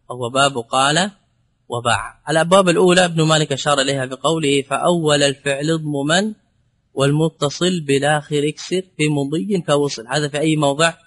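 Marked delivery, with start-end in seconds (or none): 4.6-10.1 measured chanting of Ibn Malik's verse; verse recitation. Acted. Teacher reciting Ibn Malik verse to students, measured chant. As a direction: recite the grammar poem steadily.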